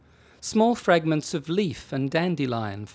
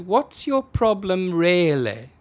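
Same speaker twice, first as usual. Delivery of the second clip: slow, tired constable; weary sigh; 5 semitones higher, 5 dB louder, slower than usual. Acted. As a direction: drag it out wearily. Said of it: "the policeman sighed".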